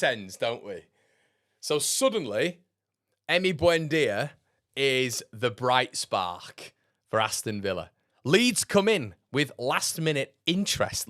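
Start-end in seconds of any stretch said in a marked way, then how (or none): 1.6-11.1 mock hype. Mocking transfer rumour hype.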